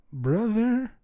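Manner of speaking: high, loud incredulous call; half-joking outrage; incredulous brother. Real, not acted. Incredulous call to the audience over his wife's verdict. Mock disbelief at wife.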